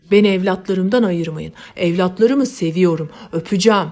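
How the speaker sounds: the mad father resists being dragged from the bodies, pleading loudly. Acted. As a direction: beg them to let go of you.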